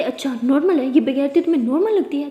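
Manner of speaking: loud mocking fury; father yelling at the mother; scornful shout. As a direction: throw her word back at her. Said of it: "बहुत चिल्ला रहे होते हैं".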